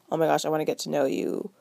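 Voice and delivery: quick, gushing, eager-to-meet voice. Retold or imitated. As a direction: rush it out like a keen fan. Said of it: "It wasn't like".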